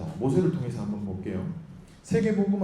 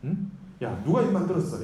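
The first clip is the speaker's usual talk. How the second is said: acted anger; 3 dB louder than usual. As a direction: scold like an exasperated God. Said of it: "하나님 화를 내시죠". (화내는 하나님 흉내로 호통치듯)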